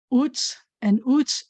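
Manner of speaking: "uts and uts" stretched slowly; slow drill. Shown as a demonstration. Teacher slowing down practice sounds for the class, slow. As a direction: draw out each "uts". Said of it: "We have".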